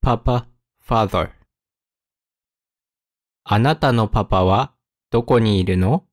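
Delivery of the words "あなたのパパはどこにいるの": careful question with a pause midway; phrase it out for learners. Shown as a demonstration. Example read slowly, then at speed.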